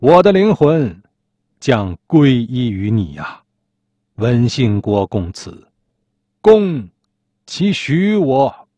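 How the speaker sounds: slow, drawn-out dying proclamation; understated shout, stretched into solemn declamation; proclaimed outcry. A narrator's reading. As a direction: declaim it slowly, like a last cry to the heavens. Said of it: "文成大声呐喊说".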